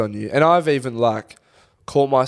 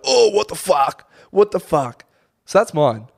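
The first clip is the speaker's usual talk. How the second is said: imitating Gabby; 5 semitones higher, 4 dB louder than usual. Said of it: "she'll be like".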